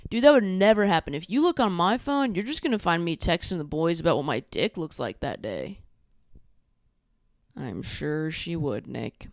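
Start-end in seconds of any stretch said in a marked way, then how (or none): 0.1-5.8 mock bro bragging. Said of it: "And Nick's like".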